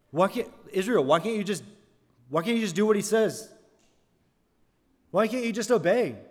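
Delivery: mildly hammed-up annoyance, climbing; mock frustration. Preacher playing a frustrated Bible reader, mock exasperated. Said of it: "I'm getting frustrated reading the Old Testament".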